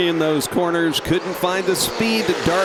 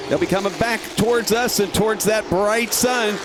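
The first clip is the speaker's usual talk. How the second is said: higher, rising race call; excited race call; 6 semitones higher than usual. Real, not acted. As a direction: call the fight for the lead. Battle for the lead.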